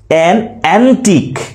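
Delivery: "an antique" with an held back, antique weighted; stress on antique. Shown as a demonstration. Teacher showing noun stress, light separate an before stressed antique. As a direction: set an apart, then push antique. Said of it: "an সাউন্ডটা slow বলি".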